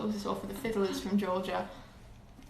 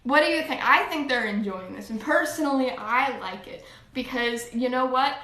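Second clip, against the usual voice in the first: chatty put-on American accent; switched American accent. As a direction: argue playfully in an American accent. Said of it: "we're switching accents".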